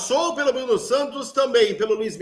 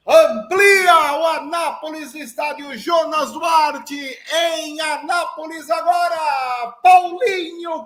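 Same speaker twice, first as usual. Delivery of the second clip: excited goal recap; 3 semitones higher, 3 dB louder than usual. Real, not acted.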